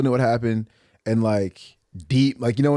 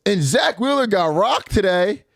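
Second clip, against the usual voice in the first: mock fan crowing; 6 semitones higher, slower than usual. Mimicking Boston girl's gloating about game.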